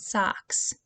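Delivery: socks whispered; whispered word. Shown as a demonstration. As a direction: breathe socks softly. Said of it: "giving its ah sound".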